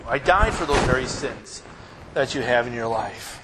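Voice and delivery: loving plea; Jesus speaking. Acted. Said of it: "He says".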